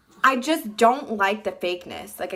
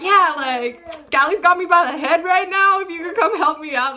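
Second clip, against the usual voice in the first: higher, louder breezy ask for help; mock casual plea; 6 semitones higher, 5 dB louder than usual. Mocking the girl calmly asking a friend to come help. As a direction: act out a laid-back text asking for help.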